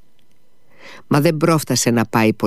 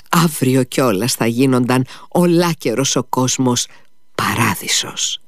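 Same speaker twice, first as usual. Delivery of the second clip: fervent son; 2 semitones higher than usual. Acted. Dying son fervently assures his mother, raised voice. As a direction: speak with rapt conviction.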